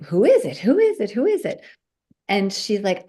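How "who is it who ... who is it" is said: each who is it rising higher and more eager; escalating urgent questions, pitch climbing; building excitement. Retold or imitated. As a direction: start eager, climb to a high, breathless plea. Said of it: "And I'm like".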